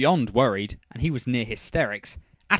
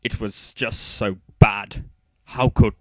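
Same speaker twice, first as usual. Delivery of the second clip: choked-up and trailing off; 6 dB louder, slower than usual. A narrator's reading. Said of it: "didn't want to finish".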